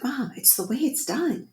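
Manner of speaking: high-pitched mock teen indignation; put-on indignant protest to mom; indignant daughter. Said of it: "she's indignant with me".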